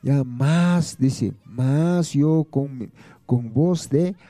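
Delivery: slow, measured reading of the verse; scripture reading. Acted. Preacher to radio listeners, reading Jonah slowly. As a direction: lay the verse out slowly for the flock. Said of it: "mira, Jonás dice así".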